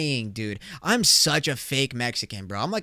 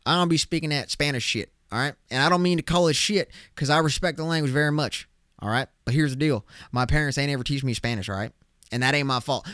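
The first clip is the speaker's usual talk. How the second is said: southern twang. Acted. Brushing off people who talk Spanish to him, Southern twang. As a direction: throw in a folksy Southern US twang. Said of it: "throw in a southern twang to it".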